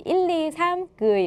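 가볍게 높인 목소리로 숫자를 세듯; 사진 찍기 전 박자 맞춰 외치는 시늉. Retold or imitated. (베트남 사람이 사진 찍을 때처럼, 가볍게 구호하듯)

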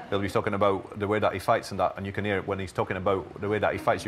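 lightly imitated Bolton and Pakistani accent; a hint of Bolton-Pakistani English; Amir Khan. Linguist showing viewers a boxer's accent, lightly imitated Bolton-Pakistani. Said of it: "if you listen to him talking".

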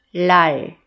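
"lal" closed on a held final l; final-consonant drill. Shown as a demonstration. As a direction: say "lal" loudly and carefully, resting on the l. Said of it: "七个尾音都发音看看".

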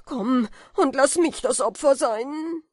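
sehr hoch, sehr laut herausgeschrien; verzweifelter Schrei. A narrator's reading. Falke schreit weiter verzweifelt. (Falke schreit verzweifelt Kaspar an)

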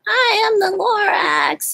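high, hoarse creature voice breaking into a cough; coughing Lorax. A narrator's reading. Lorax to the Onceler, coughing from the smog, high and rough. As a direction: cough out the name like a wheezy little creature. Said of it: "he coughed and he whiffed".

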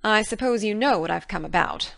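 mildly sheepish guardian's voice; a touch of embarrassment; shamefaced Marilla. A narrator's reading. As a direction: admit the errand a little awkwardly. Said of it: "a little shamefacedly".

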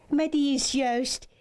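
lady frog exclaiming, high-pitched; startled exclamation. A narrator's reading. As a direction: cry out high in surprise. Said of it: "riep zij uit". (verraste, hoge uitroep)

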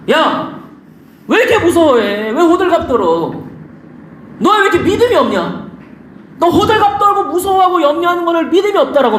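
lightly acted scolding; mock scolding. Jesus scolding frightened disciples for little faith, mock scolding. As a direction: tell them off in a half-playful rebuke. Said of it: "예수님이 막 제자들 막 혼내는 거야".

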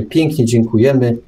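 normal talking voice

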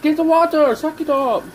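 bossy squeak. Pretend. Donkey orders Shrek to wash.

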